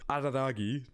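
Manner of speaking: name mangled by a bitten tongue; tongue not cooperating, stumble on the R; with a sore tongue. Real, not acted. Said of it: "Normally I can say his name fine".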